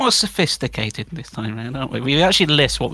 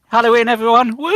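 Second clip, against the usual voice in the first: loud, high Halloween cheer; excited shout; 10 semitones higher, 6 dB louder than usual. Real, not acted. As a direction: whoop it to the crowd. Festive shout.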